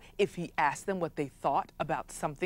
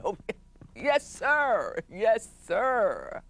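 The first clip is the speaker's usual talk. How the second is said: fawning courtiers; 3 semitones higher, much slower than usual. Acted. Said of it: "they nodded and said".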